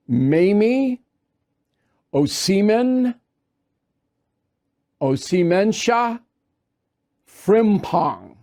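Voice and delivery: each syllable of the judge's name stretched out slowly. Shown as a demonstration. Host slowly sounding out the judge's name for viewers. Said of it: "I'm gonna say her name very, uh, slowly".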